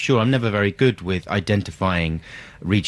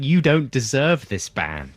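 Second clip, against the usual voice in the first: mock berating; 2 semitones higher, slower than usual. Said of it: "you started berating the crowd".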